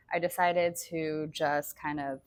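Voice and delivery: talking around a hair in the mouth; words slightly blocked by a stray hair. Real, not acted. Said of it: "sorry, I have a piece of hair in my mouth".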